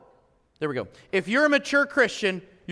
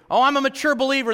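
smug boast; 4 semitones higher, 4 dB louder, faster than usual. Shown as a demonstration. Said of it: "We can".

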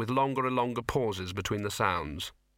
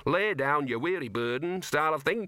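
imitating a big dog; 6 semitones higher than usual. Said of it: "big dog that says".

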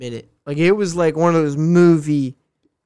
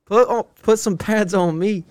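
pumped, higher and louder, ready to play; hyped up; 6 semitones higher, 4 dB louder than usual. Retold or imitated. After the speech, to his co-host, pumped and loud. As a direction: fire yourself up like you're about to suit up.

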